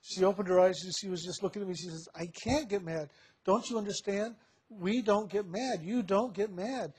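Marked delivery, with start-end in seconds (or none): 2.1-6.9 acted protest. Mother's protest acted in retelling.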